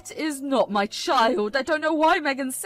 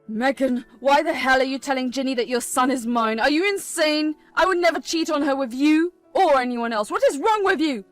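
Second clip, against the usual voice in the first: loud, furious yelling; angry shout at Megan; 7 dB louder than usual. Acted. Husband shouting at the scheming Megan, furious. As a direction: tear into her, fully furious.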